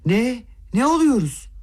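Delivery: high, horrified exclamation; aghast mother shrieks in disbelief; shocked outcry. A narrator's reading. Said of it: "dehşetle haykırdı birden".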